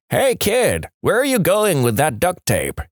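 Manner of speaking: high-pitched calling out; mock yell. A narrator's reading. Old man on porch hails passing kid, high mock yell. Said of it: "Old guy yells out".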